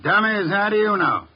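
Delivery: spring the trap, voice up; triumphant challenge. Acted. Detective springs trap on suspect.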